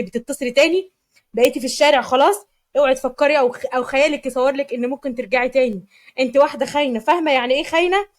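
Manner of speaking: angry outburst. Acted. Husband scolding his wife on the phone, angry and loud. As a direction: lash out at her, hurt and enraged. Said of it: "قلب غيظه بعصبية".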